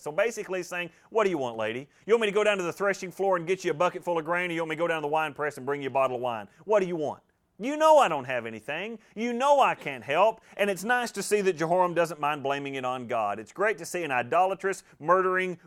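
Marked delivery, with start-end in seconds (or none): 1.1-10.4 voicing the king's irritated brush-off; mock the request as the exasperated king; sarcastic retort. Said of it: "notice the sarcasm with which he answers".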